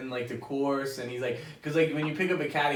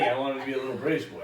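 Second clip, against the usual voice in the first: put-on British accent; faster than usual. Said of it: "That was a really good accent".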